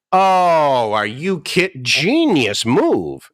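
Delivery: high, drawn-out sarcastic genius move; mock them with slow fake admiration; sarcastic mock praise. Sarcastic reply to friends' advice.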